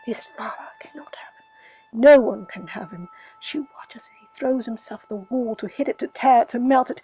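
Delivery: intense narration. A narrator's reading. Grief scene narrated with force.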